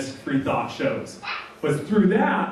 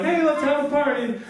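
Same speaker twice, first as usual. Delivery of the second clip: mock excitement; 10 semitones higher than usual. Atheists mocking Rapture Day.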